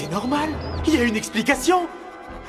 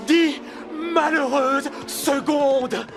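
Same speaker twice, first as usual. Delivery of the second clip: drawn out, slow, despairing; dramatic lament; 5 semitones higher, much slower than usual. Acted. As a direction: stretch out the complaint. Lamenting being late.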